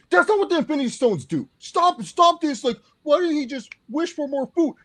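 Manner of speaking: high, loud and fed up; exasperated rant. Real, not acted. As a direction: plead with them to stop, half laughing. Fan exasperated at bad argument.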